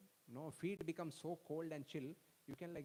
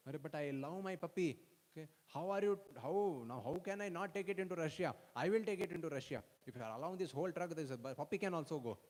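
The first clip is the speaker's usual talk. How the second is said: pleading protest; 3 semitones higher, 5 dB louder than usual. Retold or imitated. Devotee pleads with border guard.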